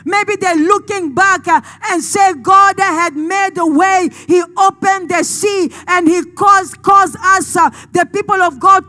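forceful, emphatic sermon storytelling; impassioned preaching. Real, not acted. Preacher recalling God's past victories for the congregation, impassioned. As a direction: preach it with conviction.

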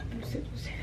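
breathy whispered aside to herself. Acted. Whispering playfully to her viewers. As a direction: whisper it like a little secret.

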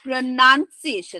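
slow "pronunciation" with NUN in the middle; correct "pronunciation". Shown as a demonstration. Teacher modelling the word, slow "pronunciation" with a short nun. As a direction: say "pronunciation" slowly as pro-nun-si-a-tion. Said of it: "প্রনাউন্সিয়েশন ভুল করি".

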